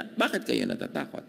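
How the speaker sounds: mild, soft question, free of reproach; gentle, not scolding. Retold or imitated. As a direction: softly ask without blame. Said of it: "Hindi naman niya pinagalitan, hindi niya sinisi".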